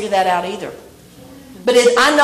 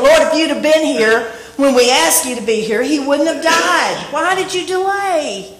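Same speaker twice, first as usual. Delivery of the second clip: in-your-face complaint; 3 semitones higher than usual. Retold or imitated. Martha confronting Jesus about his delay, mild mock in-your-face. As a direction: lightly voice Martha pressing Jesus. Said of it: "in his face way saying".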